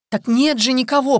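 loud, high-pitched wail; desperate moan. A narrator's reading. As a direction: moan it out in despair. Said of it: "простонал Прокофьев".

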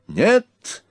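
a sudden high yell; a prince's furious refusal; shouted no. A narrator's reading. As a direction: cut him off with a high cry. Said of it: "закричал Эрнак".

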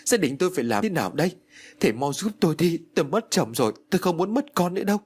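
mock wailing plea. Widow begging the master to save her son, acted sobs. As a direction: beg the master through tears. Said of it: "Bà Phú gục đầu xuống đất mà khóc".

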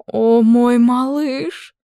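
high, loud, slow cooing; queen gushing over her boy, loud and high. A narrator's reading. Queen coos over her son, high and loud.

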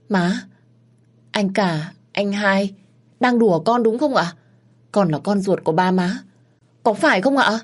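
high, pleading voice near tears; a shaken child pleading with family, voice rising; tearful pleading. Acted. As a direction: beg them to say it is a joke. Child begs family to deny adoption.

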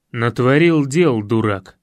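slow, heavy, low-ending scorn; grumbling anger. A narrator's reading. Coach curses the fool who caused trouble, angry. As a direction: spit out the insult. Тренер ругает Федю.

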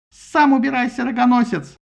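high, loud squealing retort; shrieking. A narrator's reading. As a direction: screech the insult back. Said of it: "взвизгнула в ответ Афродита".

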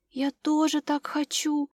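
slow, breathless with delight; lightly voiced little girl, awed; delighted whisper. A narrator's reading. Little girl admiring the drawings, a delighted half-whisper. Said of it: "с восторгом прошептала она".

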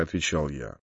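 plain reading voice

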